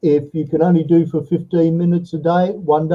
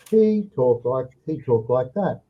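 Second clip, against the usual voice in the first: softer, flowing words; smooth speech; 4 dB quieter than usual. Retold or imitated. Teacher showing the student's fluent English, soft and smooth. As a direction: let it glide smoothly, no breaks. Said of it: "He smoothed right out".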